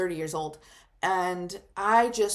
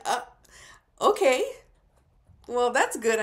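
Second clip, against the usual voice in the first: taken aback; 4 semitones higher, 5 dB louder than usual. Retold or imitated. Reacting to grandma's haunting joke.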